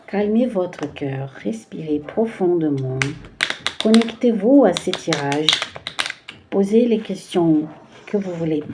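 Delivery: calm guiding voice before the card reading; guided calming. Acted. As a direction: ease the viewers into stillness.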